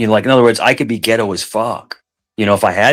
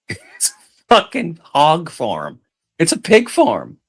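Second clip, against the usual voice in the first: high, slow laughing disbelief; 6 semitones higher, slower than usual. Real, not acted. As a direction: laugh through the shock. Shocked at hog farm.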